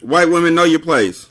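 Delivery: loud, firm command; stern warning. Acted. Host warning the audience, loud and firm. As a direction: lay down the law, loud.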